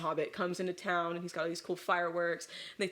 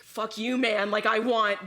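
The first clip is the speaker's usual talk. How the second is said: mock angry outburst, getting louder; 3 semitones higher, 7 dB louder, slower than usual. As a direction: snap back as a retold hothead. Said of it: "gets, like, angry".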